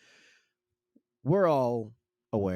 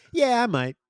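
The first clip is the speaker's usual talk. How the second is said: playful noncommittal; 12 semitones higher, 7 dB louder than usual. Retold or imitated. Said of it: "It's fun to be like".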